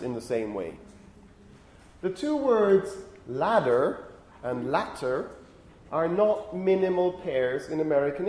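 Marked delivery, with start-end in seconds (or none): 3.3-5.3 LADDER and LATTER slowly, carefully set apart; slow, over-careful "ladder" and "latter"; overdone enunciation. Shown as a demonstration. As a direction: spell out the contrast of "ladder" and "latter" by ear, slowly. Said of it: "I'm overdoing things here".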